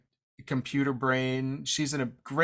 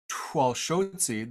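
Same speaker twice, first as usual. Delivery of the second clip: slow and careful; much slower than usual. Shown as a demonstration. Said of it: "the one that we chose".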